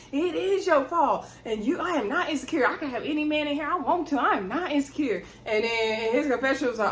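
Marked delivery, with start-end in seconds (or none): 0.1-5.2 higher-pitched mock holler, no real volume; imitated holler. Wife answering husband across the bar, imitated holler. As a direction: imitate an indignant wife calling across a room. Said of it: "She hollered at him across the bar".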